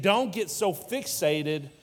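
bold, insistent reassurance. Retold or imitated. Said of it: "He's saying".

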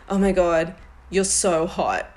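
mild imitation of his enthusiastic gushing. Retelling his reaction in bed, mildly enthusiastic. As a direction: lightly mimic an admiring, enthusiastic partner. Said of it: "in that very enthusiastic tone".

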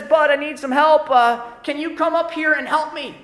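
mom yelling. Retold or imitated. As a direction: call up a request to a kid below. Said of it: "she yells down and she says".

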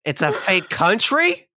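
hammed-up shock, slowing on lied to; feigning shock that Aldovia is fake; mock betrayal. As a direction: act wounded and betrayed. Mock outrage at fake country.

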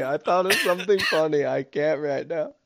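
trying not to laugh; holding back laughter. Real, not acted. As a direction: laugh leaking through the words. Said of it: "pretending not to laugh".

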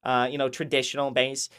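mock a measured commentator's calm explaining; a hint of a smug podcast host; imitating Mario. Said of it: "he talks like that".

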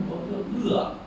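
我 stressed and held, then 饿 said soft. Shown as a demonstration. Teacher showing stress on the subject, softly. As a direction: lean on 我 before 饿. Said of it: "这就是谁啊".

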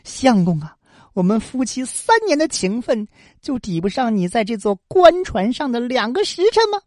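a touch of bitter reproach; wife's understated bitter question to her husband; mildly resentful. Acted. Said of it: "他恨恨地说".

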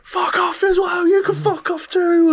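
very high, slow squeaky yell; mock the addict telling her off; imitating a spaced-out addict cursing; crackhead voice.

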